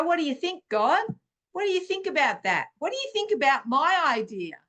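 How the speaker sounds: quick, lifted, playful questions; eager question to God. Retold or imitated. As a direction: ask God like a keen child. Acts out asking God eagerly.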